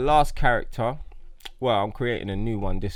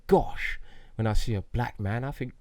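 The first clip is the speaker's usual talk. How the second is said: posh voice; 2 semitones higher than usual. Retold or imitated. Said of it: "I used to do a posh voice".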